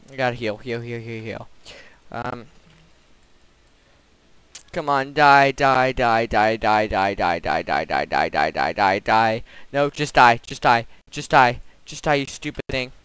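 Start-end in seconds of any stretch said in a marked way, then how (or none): 4.7-12.9 angry shouting. Real, not acted. Fighting the monster train.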